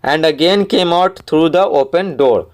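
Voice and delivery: very slow, every word spaced out for the class; slow read-aloud. Shown as a demonstration. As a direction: read the line slowly so pupils can follow. Teacher reads story passage slowly.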